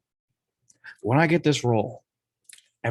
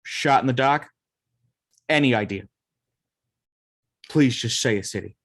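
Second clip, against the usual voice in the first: put-on Boston accent; 2 semitones higher than usual. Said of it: "Nick talks in a thick Boston accent".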